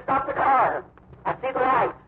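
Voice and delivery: high, urgent call to stop; a blind man suddenly seeing, calling out; excited cry. Retold or imitated. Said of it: "he screamed".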